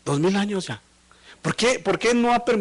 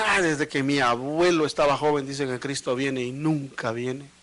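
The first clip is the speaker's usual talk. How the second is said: mildly sarcastic scoffing voice; mocking sarcasm; 2 semitones lower than usual. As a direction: mimic the scoffers' jeer, understated. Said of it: "lo hacen con sarcasmo".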